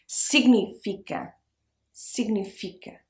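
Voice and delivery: significa with its pitch dropping at the end; little drop. Shown as a demonstration. Teacher shows learners the falling significa. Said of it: "it has a little drop".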